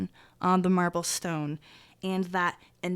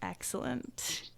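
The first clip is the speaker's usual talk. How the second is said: whisper; 3 semitones higher, much slower than usual. Acted. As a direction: whisper it with menace. GM dramatic whisper.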